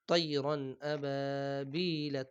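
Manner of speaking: slow clear তৈরন আবাবিলা with no nasal; unnasalised তৈরন আবাবিলা; clear recitation. Shown as a demonstration. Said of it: "এরকম হবে না".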